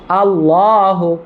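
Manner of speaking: আল্লাহু drawn out slowly with a full, thick la; model pronunciation. Shown as a demonstration. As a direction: stretch আল্লাহু slowly so the la sounds heavy. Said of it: "আবার বলেন".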